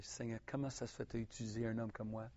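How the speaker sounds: tearful retold prayer. Preacher recalling his night prayer, softly tearful. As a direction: pray quietly as if still moved to tears. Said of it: "je pleurais".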